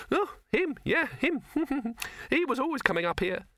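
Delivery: high rabbit voice with a laugh; a high little rabbit, chuckling; amused rabbit. Acted. Rabbit remembering old man.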